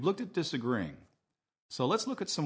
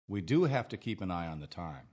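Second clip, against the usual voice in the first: stressed "do" in a teacher's model sentence; emphasis on DO; 3 semitones lower than usual. Shown as a demonstration. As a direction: lean on "do", let the rest fall away. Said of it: "Notice the emphasis on the word "do".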